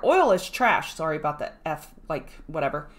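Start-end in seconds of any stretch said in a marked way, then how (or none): 0.0-0.9 mocking the crowd. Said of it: "down here".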